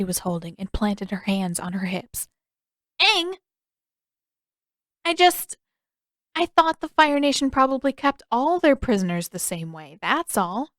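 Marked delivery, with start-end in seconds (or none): 3.0-3.4 sharp, much higher exclamation of his name; scolding call. Acted. Katara scolding Aang, sharp high call. 5.0-10.7 put-on high, hurried boyish excuse; flustered Aang. Aang caught out, flustered high excuse.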